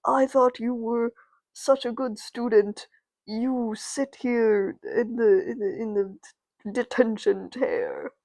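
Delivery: lightly voiced principal scolding; a hint of a stern authority figure; appalled principal. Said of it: "the principal's like, I'm appalled".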